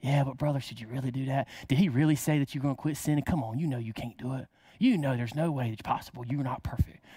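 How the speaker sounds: lightly voiced devil whispering doubt inside your head; tempting inner voice. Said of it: "The devil's constantly talking to us with ourselves".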